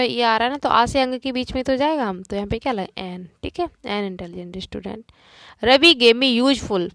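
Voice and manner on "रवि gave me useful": very slow, loud reading; slow dictation. Shown as a demonstration. Teacher dictating an exercise to the class. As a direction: drag it out for copying. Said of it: "teacher reads example slowly".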